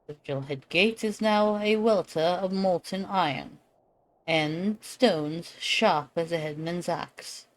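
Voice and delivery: rally the knights with grave pride; noble lord voice. Acted. Lord briefing the hero before the assault, stately. Reads NPC lord dialogue aloud.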